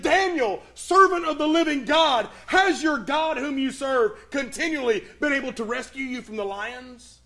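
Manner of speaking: a king calling anxiously into the den at dawn; anguished call. Retold or imitated. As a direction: call out in anguish, fearing the worst. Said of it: "in an anguished voice".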